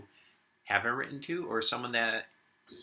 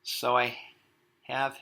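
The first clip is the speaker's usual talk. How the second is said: much louder, exasperated outburst; loud, indignant shout at everyone; fed-up shout; 12 dB louder than usual. Acted. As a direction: Warren loses his patience and lets it all out. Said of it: "and I'm sorry if I shout".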